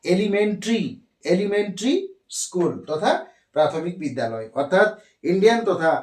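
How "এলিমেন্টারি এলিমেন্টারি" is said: এলিমেন্টারি said as "elimentri", the silent a dropped, repeated; pronunciation demo. Shown as a demonstration. Teacher showing students how to say এলিমেন্টারি, the a silent. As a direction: sound out এলিমেন্টারি as "e-li-men-tri", skipping the a. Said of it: "উচ্চারণটা হবে".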